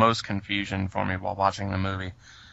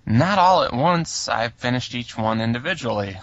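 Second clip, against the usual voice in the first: cheeky loud retort; 2 semitones higher, 5 dB louder than usual. Retold or imitated. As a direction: punch out a proud, saucy reply. Retelling the cheeky reply.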